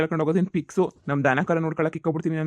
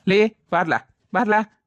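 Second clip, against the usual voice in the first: calling out; 4 semitones higher, slower than usual. Acted. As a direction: bark for him to come out. Lender calls Shyama angrily.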